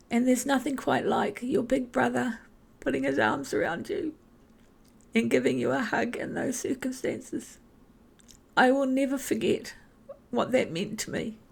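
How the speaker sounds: holding back tears over a brother's hug; choked up. Real, not acted. Remembering her brother's hug, voice choking up. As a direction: voice rising and tight with real emotion. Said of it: "Sorry, this is an emotional memory for me".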